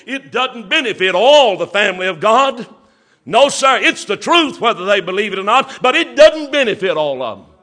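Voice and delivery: preacher insisting to brothers and sisters, loud; emphatic preaching. Acted. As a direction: hammer it home. Preacher rising to emphatic point.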